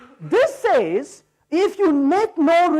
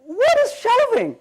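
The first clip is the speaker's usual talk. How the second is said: higher, slower "What is shelving?"; incredulous question; 9 semitones higher, slower than usual. Retold or imitated. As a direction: stretch it out, in disbelief. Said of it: "I'm like".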